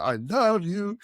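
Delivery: a gushing "I love you" with a rising end, only a hint of the client; gushing Italian client. Italian procurement guy gushing at the salesman, lightly mimicked. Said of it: "I won't do the accent".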